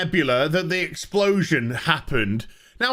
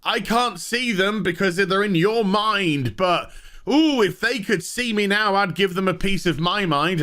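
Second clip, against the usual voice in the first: mock sassy engineer; 3 semitones higher than usual. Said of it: "gay engineer's just like".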